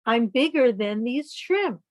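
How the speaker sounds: slow, proud boast of a big squid; boastful giant squid. Acted. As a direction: puff up and brag like a huge squid.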